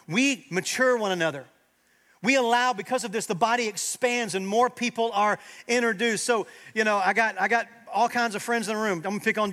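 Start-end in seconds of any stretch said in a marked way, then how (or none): 0.1-6.2 loud, high sermon climax; rising pulpit fervor; fervent preaching. Acted. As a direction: preach it with full force. Preaching at full force.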